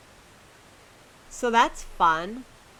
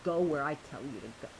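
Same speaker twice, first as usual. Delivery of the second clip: aggressive; 4 semitones lower, 7 dB quieter, faster than usual. Pretend. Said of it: "that was kind of aggressive".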